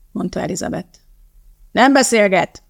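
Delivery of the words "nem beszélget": a touch of a coxswain's yell; mild shout. Acted. Coxswain silencing the chatting rower, mild shout. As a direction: snap the order at the rowers. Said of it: "kiabálta a kormányos".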